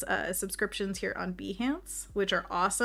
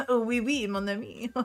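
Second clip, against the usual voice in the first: put-on French accent; 3 semitones higher than usual. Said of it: "I can read in a French accent".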